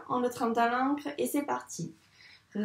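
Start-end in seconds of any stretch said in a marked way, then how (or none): 2.5-2.6 RÉ stretched very long, rolling into the vowel; RÉ said sound by sound, very slowly. Shown as a demonstration. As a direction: draw out each sound of RÉ as if writing it. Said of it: "il faut bien dire tous les sons".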